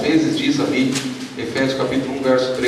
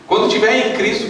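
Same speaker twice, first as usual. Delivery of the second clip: ordinary talk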